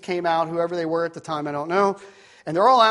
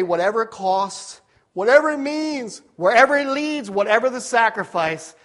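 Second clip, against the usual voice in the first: fervent vow; 3 semitones higher than usual. Retold or imitated. Preacher voices a vow of surrender.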